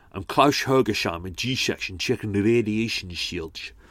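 put-on voice, every s sound smeared into sh. Doing a best Sean Connery impression of a Thunderball line. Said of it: "That's my Sean Connery".

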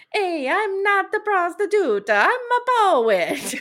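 very loud, very high put-on Italian accent. Imitating a poet character from a show: imitating an Italian accent. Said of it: "I can do that one 'cause I'm Italian".

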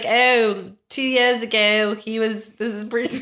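bad, failed fake South African accent. Quoting a mother showing off her son, in a bad South African accent. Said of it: "I can't do a South African accent".

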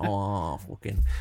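dropping into a put-on Manchester accent. Showing how talk changes around people from Stoke: imitating a Manchester accent. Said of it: "like two Manchester bands".

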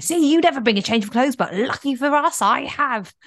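high-pitched, exasperated, scolding, venting shout. Speaker retells meeting their partner in a car park, retelling shouting at her. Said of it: "i start shouting at her".

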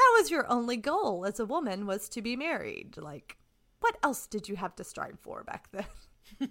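openly sarcastic, swooping sing-song. A speaker adds an aside in conversation, sarcastic. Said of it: "As I'm saying that sarcastically".

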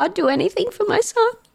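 put-on, very high, shaky, quavering voice. Retelling how a man talking about his son spoke, imitating a shaky voice. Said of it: "voice is all shaky and he's like".

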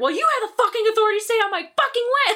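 very high, enraged, furious yell. Retelling how he cusses at the parent: imitating someone angrily yelling. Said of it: "he just cusses at her".

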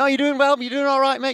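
put-on cheery, upbeat, encouraging race marshal voice. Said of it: "just those really cheery blokes".

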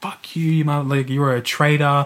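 put-on enraged, furious, crazed outburst. Retelling a man smashing everything and hanging up: imitating a furious rant. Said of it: "going apeshit".

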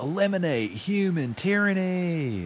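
put-on very high, shouted rallying cry. Retelling a leader raising his fist to a crowd: retelling a shout. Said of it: "Raises his fist to the sky and shouts out".

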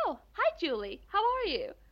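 put-on breezy, super-cheerful, high sing-song. Retelling how the man who slammed the door greeted her: mock super-cheerful. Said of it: "Skitglad, som att ingenting har hänt".

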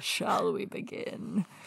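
put-on gravelly voice. Quoting a man's line while talking about it with others: imitating a gravelly voice. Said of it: "The voice is so gravelly".

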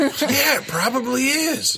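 high, dazed, drawn-out delivery. Recapping a horror movie, quoting Roger agreeing: Roger impression. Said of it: "I don't know if that was a good impression".

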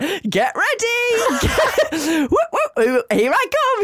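put-on woman's shout. Retelling a performer floating over the audience: imitating a woman shouting. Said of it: "She's shouting stuff like that".

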